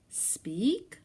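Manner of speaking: doubtful, hopeful rising ask; unsure question. Acted. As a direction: ask it again, no longer sure. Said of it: "I said".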